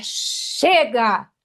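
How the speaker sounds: long, forceful release; demonstrated shout. Shown as a demonstration. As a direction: let the cry burst out. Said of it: "Eu faço assim". (grito solto e forte)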